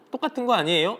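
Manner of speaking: mock child's doubtful question; puzzled child Minju. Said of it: "민주가 어떻게 얘기해요?".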